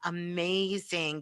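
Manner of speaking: normal talking voice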